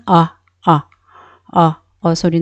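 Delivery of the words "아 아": 아 with the jaw dropped; open-jaw vowel. Shown as a demonstration. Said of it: "턱을 좀 내리는". (턱을 내린 '아' 발음)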